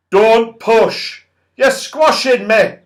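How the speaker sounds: high, loud pushing goblin shouts; squashed goblin cries. A narrator's reading. Trapped goblins shoving each other, high loud cries. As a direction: yell from a crush of goblins. Goblins quarrelling behind trapdoor.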